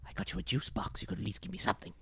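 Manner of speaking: grumbling, exasperated detective. Acted. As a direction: complain about the favour. Detective complains.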